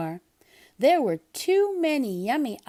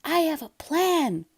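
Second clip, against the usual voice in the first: higher, pleased with himself; sly Splat; 6 semitones higher than usual. Acted. Splat telling mom his plan, proud. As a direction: announce it proudly. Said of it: "said Splat".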